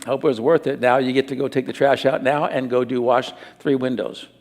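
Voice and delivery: low, matter-of-fact fatherly correction; calm disciplining parent. Acted. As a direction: hand down the consequence without anger. Acting out calm discipline of son.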